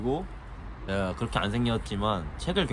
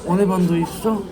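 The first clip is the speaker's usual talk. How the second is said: higher imitated veteran actor voice; Lee Kyung-young impression; 10 semitones higher than usual. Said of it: "이경영 선배님 성대모사 한번 하겠습니다".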